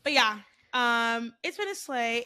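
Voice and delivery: echoey room sound; speaking in an echoey empty room. Real, not acted. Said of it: "If I sound a little echoey".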